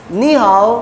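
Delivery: नी हाओ with नी rising; नी rising, हाओ dipping; tone sandhi demo. Shown as a demonstration. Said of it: "मैं कैसे पढ़ रहा हूँ". (नी हाओ, नी सेकंड टोन में)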